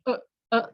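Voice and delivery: "uh, uh" with the air stopped in the throat; clipped throat catch on each "uh"; two short glottal "uh"s. Shown as a demonstration. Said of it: "sound in your throat".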